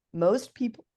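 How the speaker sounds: hiccuping mid-sentence; hiccups. Real, not acted. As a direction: talk through the hiccups. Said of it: "I got the hiccups".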